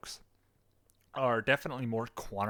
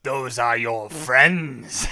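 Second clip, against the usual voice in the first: put-on Australian accent; 9 dB louder, much slower than usual. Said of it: "your best Australian Palpatine".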